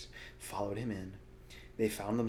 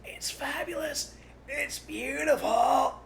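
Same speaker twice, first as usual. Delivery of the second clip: higher, slow breathless awe; breathless rapture; 5 dB louder, slower than usual. A narrator's reading. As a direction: gasp out the praise. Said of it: "fighting for breath".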